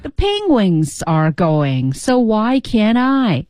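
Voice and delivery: The penguins are going said very slowly, then so why can't I slow and falling; walk through each word slowly; slow learner's read of the line; slow practice. Shown as a demonstration. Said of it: "语调呢".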